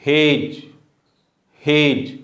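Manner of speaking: हेज ending in a plain j sound; silent D. Shown as a demonstration. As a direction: say हेज, no separate d. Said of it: "ये sound होगा इसका". (हेज में डी silent)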